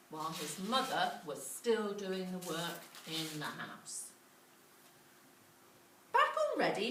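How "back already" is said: high, louder surprised mum; amazed he's back so soon. Acted. Mother greeting Jack home, high and amazed. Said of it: "she said, amazed".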